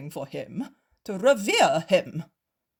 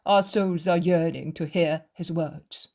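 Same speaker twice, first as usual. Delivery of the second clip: fawning; 4 semitones higher, 6 dB louder than usual. A narrator's reading. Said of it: "change tone and become like creeping pups".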